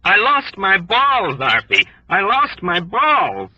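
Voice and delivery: a wounded airman screaming to his navigator; panicked scream. A narrator's reading. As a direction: scream for help, horrified. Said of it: "screamed at Arfie for help".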